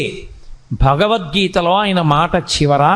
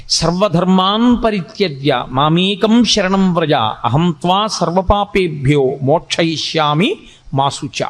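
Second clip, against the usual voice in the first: verse recitation; 3 semitones lower, slower than usual. Acted. Teacher intoning the Gita's closing verse, slow chant. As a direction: intone it, letting the last word sink away.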